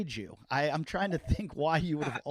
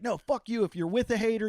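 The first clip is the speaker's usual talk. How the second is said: higher-pitched imitated comeback; mildly heated, pitched-up retort; retold anger; 5 semitones higher than usual. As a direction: act out a friend's indignant rebuke. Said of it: "got really mad at me".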